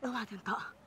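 loud high cut-off; sharp interruption. Acted. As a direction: stop him short. Noura cutting him off. (مقاطعة حادة)

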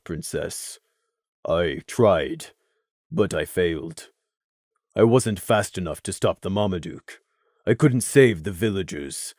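put-on low, soft unsure young stallion; subdued low guard voice; Crimson, hesitant soldier. A narrator's reading. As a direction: answer royalty carefully and low. Crimson confesses his failure.

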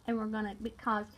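drawling redneck accent; put-on country redneck. Shown as a demonstration. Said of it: "like to do a redneck accent".

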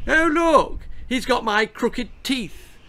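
high, loud roar; roaring cousin. A narrator's reading. Cousin Theo roaring at the family. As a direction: bellow it across the room. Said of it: "roared Cousin Theo".

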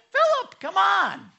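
high, loud, slow come on; Jesus gently exasperated with Philip, pitched high and loud; exasperated appeal. Retold or imitated. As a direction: plead with a friend who should know better. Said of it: "And he's like".

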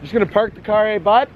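put-on a light Canadian accent with a tag eh; hammed-up Canadian hockey guy. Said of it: "He was doing a Canadian".

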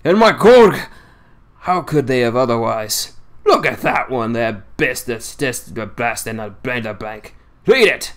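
lightly voiced old seaman in thick dialect, scornful; a hint of a crusty old fisherman railing against lies; old Yorkshire sailor. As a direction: grumble it like a cantankerous old salt holding court. Swales points at a stone.

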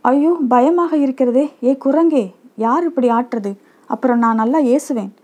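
mildly acted girl calling out in fright on a swing; a touch of panic, pitched a little up, not a full scream; frightened crying out. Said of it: "என்று கூச்சலிட்டாள்".

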